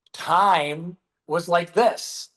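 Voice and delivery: slow drawn-out time. Shown as a demonstration. To the host, showing how slowly time once passed, drawn out slowly. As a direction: stretch every word out slowly. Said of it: "And now time's like this".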